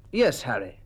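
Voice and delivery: gently, without pressure; mild. A narrator's reading. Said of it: "Colonel Wharton's voice was very mild".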